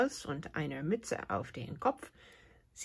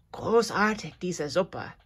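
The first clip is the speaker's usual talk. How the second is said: smacking lips; 4 dB louder than usual. Acted. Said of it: "schmatzt Hops laut".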